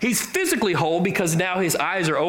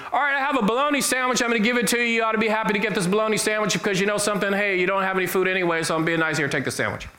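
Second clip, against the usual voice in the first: condescending charity; 3 semitones higher, much faster than usual. Retold or imitated. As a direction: play the preachy sandwich giver, a bit superior. Condescending giver mocked in sermon.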